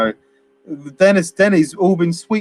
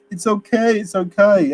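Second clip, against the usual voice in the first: higher, hammed-up soothing; mock Denny; 6 semitones higher than usual. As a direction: ham up the naive kid brushing it off. Imitating Denny calming them.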